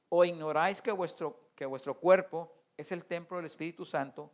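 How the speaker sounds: formal scripture recitation; scripture reading. Acted. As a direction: read the verse out to the congregation. Reads scripture aloud.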